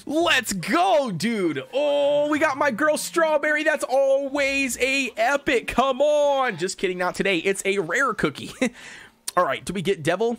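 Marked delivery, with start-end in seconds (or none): 1.7-6.6 higher, drawn-out excited call; excited hype. Real, not acted. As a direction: stretch it out in high anticipation. Spots Strawberry, expects epic.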